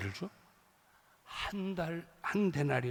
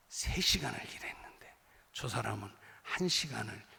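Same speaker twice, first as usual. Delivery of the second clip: grumbling whisper; 8 semitones lower, 4 dB quieter than usual. Retold or imitated. Workers grumbling over their pay.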